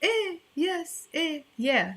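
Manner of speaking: high, sing-song reply to a teasing question; playful answer. Retold or imitated. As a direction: answer brightly, playing the lover. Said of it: "I answer and I say".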